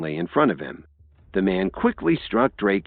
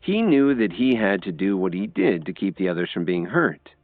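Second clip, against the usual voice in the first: usual speaking voice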